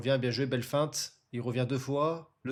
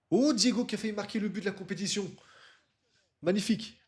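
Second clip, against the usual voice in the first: excited sports commentary; 5 semitones higher, faster than usual. Real, not acted. Near goal, fast commentary.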